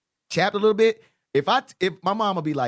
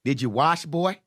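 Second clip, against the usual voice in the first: plain first quote; 3 semitones lower, slower than usual. Retold or imitated. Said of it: "my grandmother would be like".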